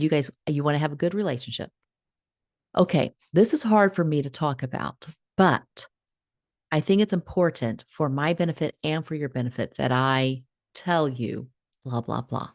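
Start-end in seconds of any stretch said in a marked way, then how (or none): 2.8-12.5 script to boss. Shown as a demonstration. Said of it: "another little script".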